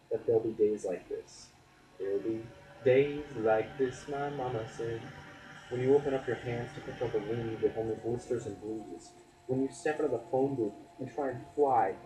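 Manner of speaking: spoken-word delivery, lifting key phrases; earnest spoken-word poem; poetry recitation. Acted. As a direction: perform the poem with deliberate pauses.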